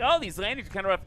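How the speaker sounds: mocking whiny online commenter; internet troll. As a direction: sneer it like a chat troll. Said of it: "that's the internet troll voice".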